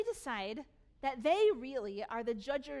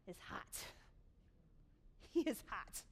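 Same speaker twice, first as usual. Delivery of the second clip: whispered; 3 semitones lower, 8 dB quieter than usual. Real, not acted. Dramatic pause about angry Moses.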